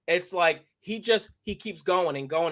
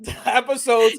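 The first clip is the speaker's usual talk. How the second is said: laughing through the words; 7 semitones higher, 4 dB louder than usual. Real, not acted. Excitedly pushing the show to her co-host, laughing. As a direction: giggle out the episodes. Still laughing, repeating the episodes.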